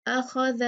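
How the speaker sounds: says "अख़ज़" with the last sound as th, tongue on the teeth; correct dhal. Shown as a demonstration. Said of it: "ज़ाल को ज़ाल ही पढ़ना है". ("अख़ज़" के आख़िर में ज़ाल को नरम th जैसा बोलना)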